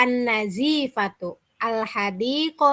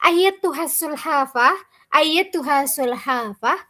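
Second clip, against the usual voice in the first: calling out; 3 semitones higher, 4 dB louder than usual. Acted. Bird calling loudly to the turtle. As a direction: call across to the turtle.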